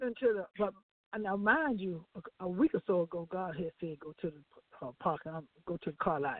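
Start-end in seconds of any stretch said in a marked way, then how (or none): 4.0-6.4 low and softer, gentle nudge; mild hushed inner voice; soft voice of God. Retold or imitated. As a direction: quietly repeat the instruction like a still small voice. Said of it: "that little soft voice said".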